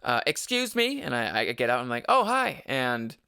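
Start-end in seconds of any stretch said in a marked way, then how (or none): 0.3-1.0 high mock call. Woman calls out again. 2.1-2.6 startled hi. Retold or imitated. Startled greeting to woman.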